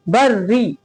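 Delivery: "बर री" with a light r on "री"; thin ra. Shown as a demonstration. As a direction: demonstrate a fine r in "री". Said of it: "बारीक".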